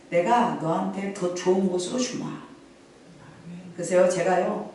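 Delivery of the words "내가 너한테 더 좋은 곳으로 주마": slow, softer voice of God answering; lightly voiced, calm divine reply. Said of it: "하나님 뭐라고 말씀하시냐면". (불평하는 나에게 하나님이 천천히 조용히 답하듯)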